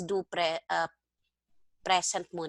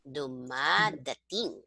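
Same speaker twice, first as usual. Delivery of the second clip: slow model word; 4 semitones lower, slower than usual. Shown as a demonstration. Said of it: "teacher models the word".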